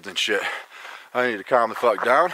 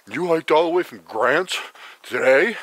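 mock disbelief; 5 semitones higher, 4 dB louder than usual. Imitating the leader's disbelief.

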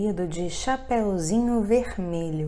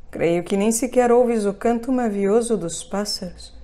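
sly wolf voice; 4 dB louder than usual. Acted. Wolf lures the girl.

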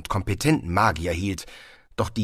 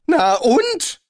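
loud, high, stern retort; streng; 7 dB louder than usual. A narrator's reading. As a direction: challenge sternly, no contradiction allowed. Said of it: "entgegnete Rincewind streng". (streng und laut entgegnet)

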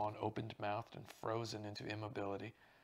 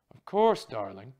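histrionically cordial trill; 16 dB louder than usual. Acted. Stephanie welcoming visitors in, histrionically cordial trill. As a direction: gush it like a stage diva. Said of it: "trilled the voice, histrionically cordial".

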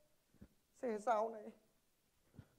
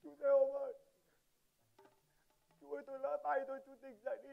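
anguished pleading. Acted. Pleading over unconscious driver.

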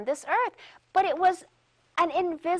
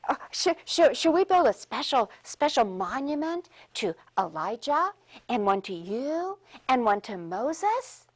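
eager stammering Peter. Retold or imitated. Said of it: "And so Peter said".

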